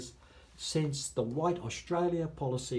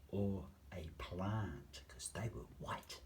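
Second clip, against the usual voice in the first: whispered aside; 6 semitones lower, 12 dB quieter, slower than usual. Real, not acted. Bitter aside, dropped voice.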